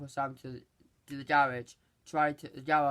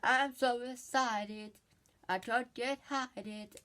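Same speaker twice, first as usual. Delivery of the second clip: excited robot; 7 semitones higher than usual. Retold or imitated. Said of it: "But Bumblebee's like".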